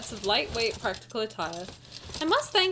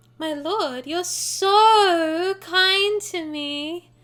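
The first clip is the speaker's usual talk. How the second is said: very slow, high, sugary, cutesy put-on flirting voice; 6 semitones higher, 8 dB louder than usual. After announcing the cutesy flirting voice, speaking to my lord: put-on flirting voice. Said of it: "Let me get my flirting voice on".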